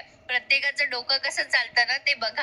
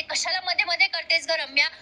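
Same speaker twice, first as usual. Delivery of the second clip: higher-pitched, quick mock annoyance; irritated retort; 5 semitones higher than usual. Kavya objecting to meddling with her, lightly acted irritation. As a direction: imitate someone mildly fed up with interference. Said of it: "अजूनच चिडते तिच्यावर आणि म्हणते".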